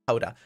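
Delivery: "Howdah" said with a clear ow sound, falling; corrected pronunciation. Shown as a demonstration. Confirming the corrected word to chat, ow vowel. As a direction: settle on "Howdah", ow as in how. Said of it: "it's howdah".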